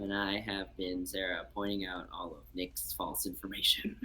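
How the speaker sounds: whisper. Real, not acted. Whispered sign-off.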